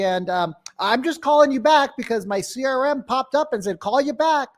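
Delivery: high-pitched, stumbling, over-eager sales caller; typical pushy agent. Shown as a demonstration. Bad agent cold-calling Billy back, high and flustered. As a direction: stammer the name, then gush on in a high voice. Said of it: "Most real estate agents go like this".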